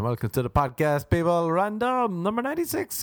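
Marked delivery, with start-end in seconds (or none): 1.5-3.0 "number ninety-six" sung out high with a rising tune; high sing-song. Pretend. Host announcing the episode number in a high sing-song.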